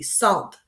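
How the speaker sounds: sant said "sahn" with a nasal ending; last syllable sant. Shown as a demonstration. Teacher breaking croissant into parts, the last syllable. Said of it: "the last part is sant".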